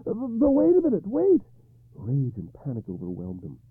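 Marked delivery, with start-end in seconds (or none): 0.0-1.4 high, loud call after her as she leaves; desperate call. Acted. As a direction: stop her from leaving, urgently. Arthur calls her back.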